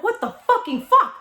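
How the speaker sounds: high-pitched, exasperated swearing; exasperated outburst. Retold or imitated. Woman finding it still isn't working, exasperated outburst. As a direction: blurt it out in disbelief. Acted exasperation at repeated failure.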